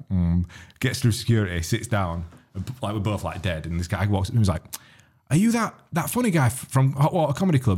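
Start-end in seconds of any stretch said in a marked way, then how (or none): 5.3-7.8 ape the starstruck fan, way up high; fan impression. An airport fan approaching the comedian, high hesitant voice.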